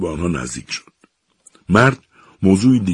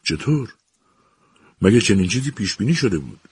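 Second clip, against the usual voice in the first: higher, startled question; surprised; 3 semitones higher than usual. Acted. Professor surprised by the captain's offer, startled. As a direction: caught off guard, asking in surprise. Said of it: "ایزمانی با تعجب پرسید".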